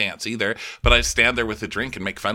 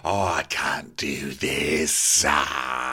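mock despair; 7 semitones lower, much slower than usual. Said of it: "he's like".

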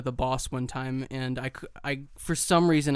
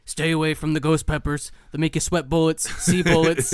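hammed-up public service warning, a bit louder at the end; mock PSA voice; 2 semitones higher, 4 dB louder than usual. Co-host parodying Alex Jones's chili warning, mock PSA voice. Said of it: "PSAs where he's, like, warning".

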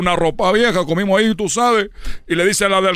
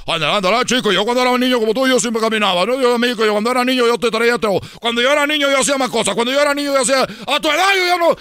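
faster, higher mock lecture; nagging dad; 4 semitones higher, faster than usual. Dad nags his tired son, a lightly hammed-up lecture. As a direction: rattle off the old 'when I was a kid' speech. Father nagging child, imitated.

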